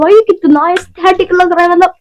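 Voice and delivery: excited, admiring exclamation; delighted. Real, not acted. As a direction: gush over how pretty it is. Admiring the bottle again.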